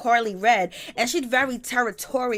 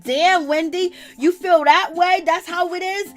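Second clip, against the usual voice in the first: mock surprise; 7 semitones higher, 4 dB louder than usual. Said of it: "I was like".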